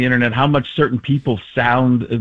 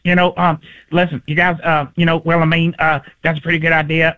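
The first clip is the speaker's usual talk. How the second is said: slightly raised, halting Texas voice; Patrick Mahomes; 3 semitones higher than usual. Shown as a demonstration. Comedian imitating a quarterback, halting Texan. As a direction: hesitate often in a Texan impression. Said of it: "add a little Texas, um, you get, uh, Patrick Mahomes".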